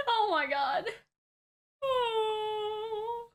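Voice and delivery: choked up. Real, not acted. Moved by the episode, getting choked up. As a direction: let the emotion crack the voice. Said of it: "getting so emotional".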